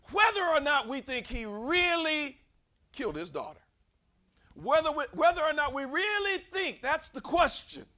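high, loud insistence on the question; full-force preaching. Real, not acted. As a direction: hammer the question from the pulpit.

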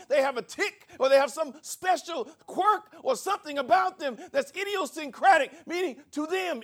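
full-force preaching. Acted. Pastor preaching to his congregation, high and loud. Preaching the Greek word idios.

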